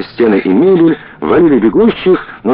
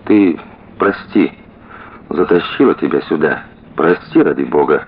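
speaking with difficulty; 5 semitones lower than usual. Acted. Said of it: "сказала с трудом".

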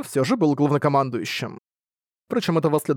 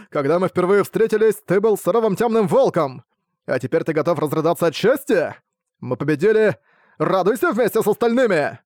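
cheerful teasing; 4 semitones higher than usual. Acted. Brad cheerfully teasing hero.

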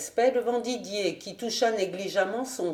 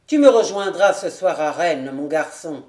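louder call across the yard; exclaiming; 3 semitones lower, 8 dB louder than usual. A narrator's reading. Didier calling to Jude as he leaves, loud. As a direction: cry it out to the boy. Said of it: "s'écria Didier".

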